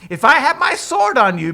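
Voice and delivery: high, loud blustering; hammed-up angry outburst; mock threat. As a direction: bluster at the donkey in pretend fury. Balaam threatens donkey with sword.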